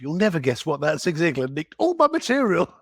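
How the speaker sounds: retold joke to wife, laughing; laughing disbelief. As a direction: tell the wife with an amused laugh. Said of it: "I said to my wife".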